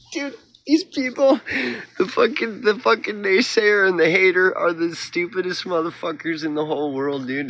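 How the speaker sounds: exasperated outburst; heated rant. Real, not acted. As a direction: spit it out at the haters. Ranting about haters.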